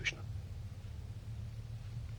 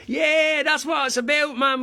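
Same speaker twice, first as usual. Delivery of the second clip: higher, spirited street cry; raised voice; 6 dB louder, slower than usual. Acted. Dubliner cheering music on the street, voice raised. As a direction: raise your voice in rousing approval. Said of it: "we can raise our voice and we say".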